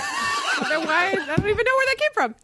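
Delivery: talking through laughter; laughing. Real, not acted. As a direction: laugh while getting the words out. Laughing after the joke.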